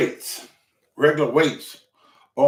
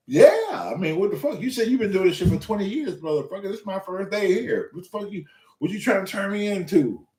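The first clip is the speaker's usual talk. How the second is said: higher-pitched, exasperated retelling; indignant protest; 5 semitones higher than usual. Retold or imitated. Beginner protesting first-day workout to veteran trainer, indignant. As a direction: push back in comic outrage.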